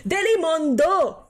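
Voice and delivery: put-on loud, drawn-out Filipino-accent advert. Streamer doing an advert, Filipino accent. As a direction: sell it in a big, high Filipino accent. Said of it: "That was my Filipino accent".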